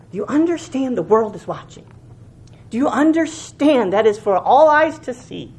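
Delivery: usual speaking voice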